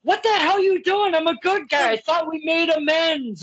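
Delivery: put-on high, indignant whine of a wronged babyface; hammed-up wounded good guy; mocking the good guy. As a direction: play the hurt hero who thought we'd made peace. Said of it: "You kept giving me the".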